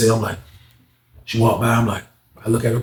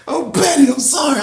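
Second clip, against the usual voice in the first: tag; 11 semitones higher than usual. Real, not acted. Apologizes straight after laughing.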